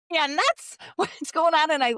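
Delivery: high, laughing "am I nuts?"; laughing disbelief. Retold or imitated. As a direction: laugh at yourself for hearing things. Mock thinking she's gone nuts.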